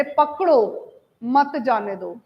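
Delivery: पकड़ो drawn out, then a break before मत जाने दो; pause after पकड़ो. Shown as a demonstration. Teacher showing how stress changes a message, pause after पकड़ो. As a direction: set पकड़ो apart as its own order, मत joined to जाने दो. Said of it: "उस तरह से बोला".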